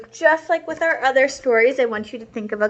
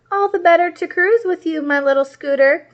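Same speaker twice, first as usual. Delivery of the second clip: higher, louder creaking truck voice; creaky villain; 8 semitones higher, 6 dB louder than usual. Acted. Monster truck answering Little Red in disguise, higher, louder creaking voice. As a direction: creak it out like an old rusty truck. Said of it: "creaked Tink".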